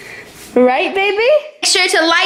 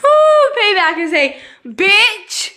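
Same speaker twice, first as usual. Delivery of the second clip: gloating; 5 semitones higher, 4 dB louder, slower than usual. Real, not acted. Gloating after the prank.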